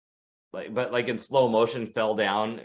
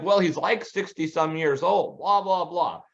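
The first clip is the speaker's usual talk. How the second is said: know-it-all husband; 5 semitones higher, slower than usual. Retold or imitated. Husband arguing with his wife in the theater, a mock know-it-all tone. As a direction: lightly ham up a man showing off what he knows.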